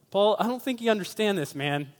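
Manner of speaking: imitated protest, starting high and quick; Kenneth Maresco. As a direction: act out an offended fan objecting. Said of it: "What would be his demeanor?".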